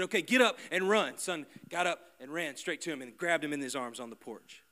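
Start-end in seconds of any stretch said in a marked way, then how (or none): 0.0-1.2 father calling out. Retold or imitated. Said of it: "He said".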